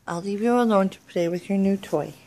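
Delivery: ordinary talk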